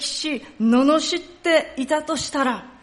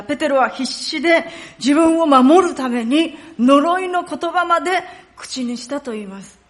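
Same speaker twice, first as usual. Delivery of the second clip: normal talking voice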